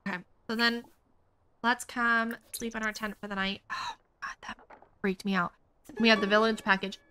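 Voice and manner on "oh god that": breathy relief. Real, not acted. Scare just passed.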